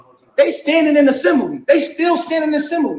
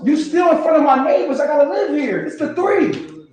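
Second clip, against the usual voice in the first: raised, scolding shout at his wife; angry yell; 3 semitones higher than usual. Real, not acted. Man shouting at his wife outside: angry, raised scolding. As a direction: yell it out so the neighbors hear. Same yelling clip replayed.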